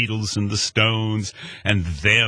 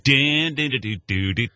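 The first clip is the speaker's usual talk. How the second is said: humming organ riff; 5 semitones higher than usual. Retold or imitated. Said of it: "in my mind, playing Jimmy Smith".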